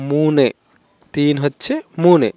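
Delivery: slow, deliberate teacher's delivery of মুনে; slow teaching demo. Shown as a demonstration. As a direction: spell out মুনে slowly for learners. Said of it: "কেউ কেউ কখনো কখনো উচ্চারণ করতে ভুল করে ফেলে".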